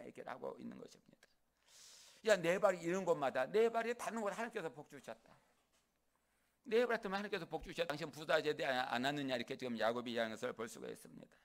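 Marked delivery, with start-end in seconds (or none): 2.3-9.4 talking big. Acted. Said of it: "큰 소리 치는 것입니다".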